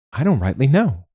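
high swooping visitor's voice; high, singsong official; visiting social worker. A narrator's reading. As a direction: let the pitch leap up and down. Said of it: "said Laura".

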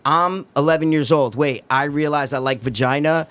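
mock straight-guy voice. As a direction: drop the pitch and mock a boy solemnly deciding how to talk. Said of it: "I need to talk like this".

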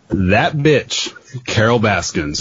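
put-on hammy Oklahoma accent with a shout; okie accent. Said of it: "In an Oklahoma voice?".

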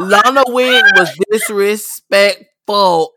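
"disrespectful" broken into slow, separate syllables; drawn-out emphasis. Real, not acted. Mock outrage over a wig.

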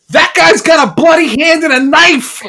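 very high, loud panicked-bystander yell; shouted alarm. Acted. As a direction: warn the whole street at the top of the voice. Second bystander raises alarm.

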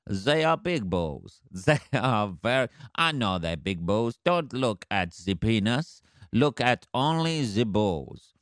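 slow, lightly done mock French accent; a bulldog bragging in a dodgy French accent; hammed-up French accent, barely put on. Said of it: "dodgy French accent".

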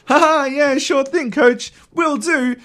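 high, chirpy good-sport reply; eager, high-voiced "will do" with a little laugh; sincere agreement. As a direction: cheerfully take the coach's advice. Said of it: "it sounds like she's, like, being sincere".

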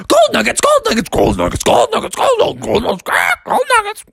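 high squealed animal chant; screaming animals. Acted. Animals charging at Bubby, screaming. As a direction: screech it like a charging herd. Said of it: "animals screaming".

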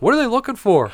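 high, mock-puzzled query; imitated puzzled partner. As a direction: imitate a baffled partner asking, voice lifted. Retold puzzled question from partner.

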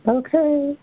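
high, sing-song mocking okay; sassy okay. Sassy sign-off after insult.

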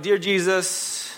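slow drawn-out mock pleading; rambling prayer. Pagans praying to every god, mock babbling. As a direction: list gods in a babbling drone. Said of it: "they were going".

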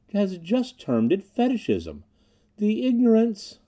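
slow, pointed irony rising high on the ignorance; ironic. A narrator's reading. Ob Hahn mocks the Englishman's slight, with slow irony. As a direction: savour the sneer under polite words. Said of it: "said Ob Hahn ironically".

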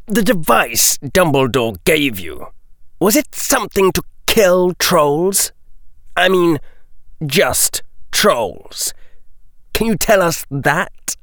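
put-on a sharp young Malfoy probing; lightly voiced Draco pressing a question; Draco's voice.

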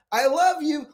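imitated high-pitched call back; yelling back. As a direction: mimic a wife calling from the bedroom. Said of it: "she yells back".

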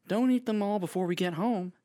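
loud teasing scold; chiding. Acted. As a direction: playfully tell her off. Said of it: "Marie chided".

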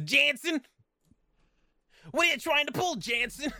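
high, strained mock yell; cartoon Jansen shout. Friend mocking the voice actor's furious shouting. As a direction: bellow the wrong name. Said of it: "he says".

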